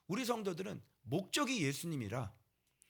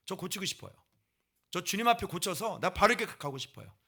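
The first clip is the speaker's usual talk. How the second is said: pleading prayer; 7 dB louder than usual. Acted. Acted prayer asking for correction.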